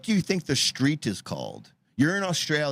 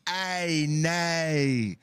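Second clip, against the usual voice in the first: mock Aussie ay nay; 3 semitones higher than usual. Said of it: "they're just like".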